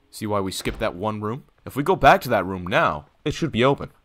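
lightly voiced salesman; breezy realtor showing the house; real estate agent pitch. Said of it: "I'm selling the house to you".

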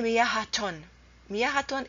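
miyahaton with a false "ton" syllable after the h; wrong added ta sound. Shown as a demonstration. Teacher shows it's not a word, miyahaton with added ta. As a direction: insert a t before the ending of miyahaton. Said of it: "You cannot say".

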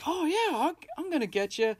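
high, mock-cheerful Joker impression. Podcaster imitating Joker promising Sal help, high and mocking. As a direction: tease it like a grinning Joker. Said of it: "He's like".

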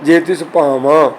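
slow, with "ਭਾਵਾਂ" ending in a nasal aan. Shown as a demonstration. Teacher models the right reading slowly, nasal end on "ਭਾਵਾਂ". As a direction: nasalise the last vowel of "ਭਾਵਾਂ". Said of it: "ਭਾਵਾਂ ਦੇ ਆਖਰੀ ਕੰਨੇ 'ਤੇ ਬਿੰਦੀ ਉਚਾਰਨ ਕਰਨੀ ਹੈ".

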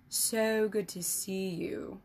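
slow, syrupy false warmth; oily smooth. Acted. Emissary greeting the wary king, slow oily charm. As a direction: stretch it out with fake politeness. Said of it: "his voice oily smooth".

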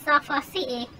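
a hint of a sulky runaway character explaining the cave; lightly voiced Mad Mel.

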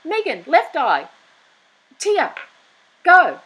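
high, loud, airheaded mock voice; mocking Meghan. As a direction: ham up a vain actress bragging she can cry on cue. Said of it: "just like the dimwit she is, she goes".

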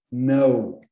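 Know said like Portuguese não, nasal "now"; same as não. Shown as a demonstration. Teacher comparing know with the Portuguese não. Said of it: "A pronúncia é exatamente a mesma do know, do não".

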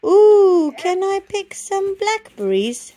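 high, loud excited ooh; a little rabbit bursting to pick berries; eager bunny. Acted. Boo asks Belle about blackberries, high and eager.

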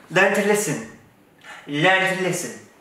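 haughty telling-off; stern scolding. Acted. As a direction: drill it in like a strict governess. Scolding the other woman.

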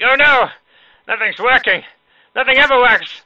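high, loud hammed-up freak-out; tense, mock panic. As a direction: wail it like an overwrought whiner. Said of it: "not be all tense and whatnot".

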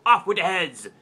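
queen's command. Acted. Queen orders heads off, a mock royal shout. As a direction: bark it out like a bossy queen. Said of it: "And the Queen says".

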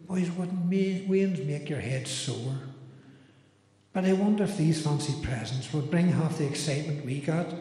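lightly voiced lady reciting a comic poem; a hint of a lady's accent in a homely verse recital. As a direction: recite it as a slightly put-on lady, in measured rhyme. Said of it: "try and do it in a, a lady's accent".

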